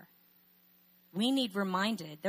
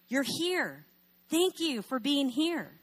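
higher, slow, heartfelt gushing; effusive welcome; 7 semitones higher, 4 dB louder, slower than usual. Retold or imitated. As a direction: thank them just for coming. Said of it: "We don't go".

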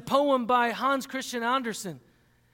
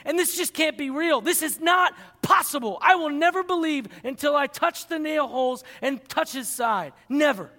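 a touch higher, insistent disbelief; defiant Thomas; 4 semitones higher, 3 dB louder than usual. Acted. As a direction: protest like a doubting skeptic. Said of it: "and says".

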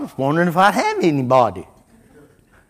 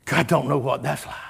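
hushed aside; 4 semitones lower, 8 dB quieter than usual. Acted. Preacher drops to hushed aside.

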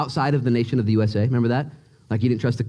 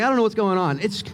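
ordinary talk, nothing marked

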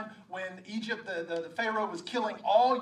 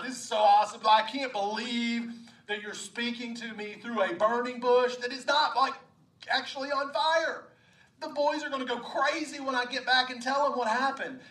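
excited Moses; 3 semitones higher, 5 dB louder than usual. Acted. Moses marveling to God at the burning bush, excited. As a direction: gush like someone bursting to tell the boys.

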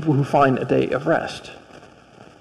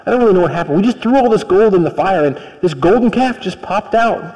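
fast, evasive excuse-making; a hint of a weaselly brother, rushed; weaselly Aaron; 2 semitones higher than usual. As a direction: squirm through the excuse quickly. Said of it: "Aaron's kind of a Weasley figure".

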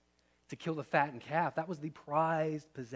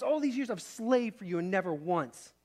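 angry son; 3 semitones higher, 3 dB louder than usual. Acted. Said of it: "You can hear the anger in his voice".

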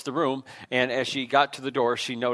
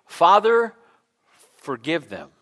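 quoted plea; 2 semitones higher, 5 dB louder, slower than usual. Retold or imitated. Preacher voicing Jesus on the cross, raised plea. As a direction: cry out the first word, then drop.

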